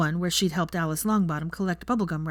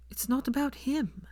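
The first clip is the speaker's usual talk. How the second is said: tearful protest; 8 semitones higher, 4 dB quieter than usual. A narrator's reading. Upset Hermione protests.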